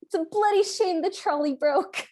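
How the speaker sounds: mock British accent. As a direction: say it like a silly Brit. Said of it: "pretty darn good British accent".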